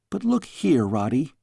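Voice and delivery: put-on a cheeky young princess; curious young girl. Girl questions her tutor.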